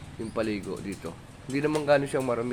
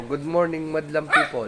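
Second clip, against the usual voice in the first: lightly voiced pet greeting, a little louder; playful greeting on the pet's behalf, pitched up; speaking for the dog; 4 semitones higher, 4 dB louder than usual. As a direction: prompt the dog with a raised greeting. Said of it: "Sabi mo".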